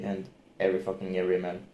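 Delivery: ordinary talk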